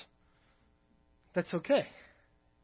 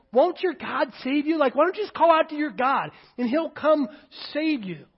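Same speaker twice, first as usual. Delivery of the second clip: raised, needling challenge; insulting taunt; 7 semitones higher, 6 dB louder than usual. Acted. Crowd at the cross challenging Jesus, mock taunting. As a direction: taunt him as the crowd would. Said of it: "also heaped insults".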